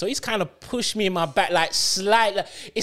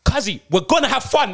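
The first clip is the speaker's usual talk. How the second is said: high, sarcastic cheerful promise; teasing the friend about the holiday with fake cheer; mock cheer; 8 semitones higher, 4 dB louder than usual.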